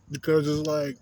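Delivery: talking through a mouthful of food; words round a bite of food; mouth full. Real, not acted. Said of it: "excuse me, I'm eating".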